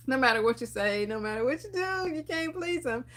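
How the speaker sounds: rising, laughing exasperation; exasperated. Retold or imitated. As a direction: laugh it off in despair. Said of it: "I'm just like".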